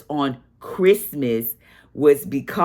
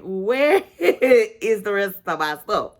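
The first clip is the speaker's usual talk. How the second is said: laughing while asking; 5 semitones higher than usual. Retold or imitated.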